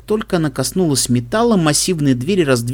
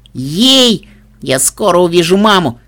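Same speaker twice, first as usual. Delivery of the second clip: joyful squeal; 3 semitones higher, 4 dB louder, slower than usual. Acted. Filly overjoyed at lift.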